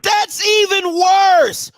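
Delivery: slowest, most outraged take. Real, not acted. Outraged repetition.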